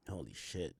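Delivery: breathed-out, low "Holy shit"; stunned whisper. Real, not acted. Streamer stunned by the texts, low near-whisper. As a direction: let it out almost silent in shock. Shocked at what he read.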